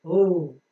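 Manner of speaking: oo with the lips rounded; rounded W sound. Shown as a demonstration. Teacher coaching learners on lip shape, rounded oo. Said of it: "Round in your lips and then pronounce".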